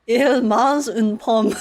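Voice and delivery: slow, careful schoolbook French; French, said slowly like a textbook drill; slow French phrase. Shown as a demonstration. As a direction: spell out each French word slowly. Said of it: "I also know".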